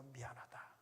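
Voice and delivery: hushed, half-whispered tearful words; mother leaving her daughter's house in tears; tearful farewell. Retold or imitated. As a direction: speak through held-back tears, very soft. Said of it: "엄마가 눈물을 흘리면서".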